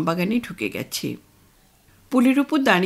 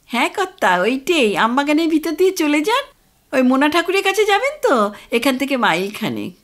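village man; 5 semitones higher, 4 dB louder than usual. Acted. Village man gives directions.

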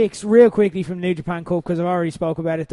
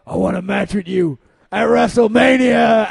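much louder shouted declaration; shouted challenge; 2 semitones higher, 8 dB louder than usual. Retold or imitated. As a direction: yell it like a big wrestling challenge. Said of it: "and he's like".

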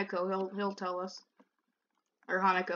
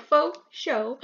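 calm Sonia imitation; 2 semitones higher than usual. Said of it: "'Cause she said it so calmly".

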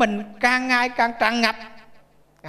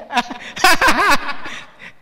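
laugh; 4 semitones higher, 4 dB louder than usual. Real, not acted. Laughing at own joke.

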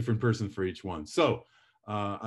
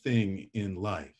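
pitch going up; 3 dB louder than usual. Shown as a demonstration. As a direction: swoop up on the middle of "important". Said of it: "make your voice go up".

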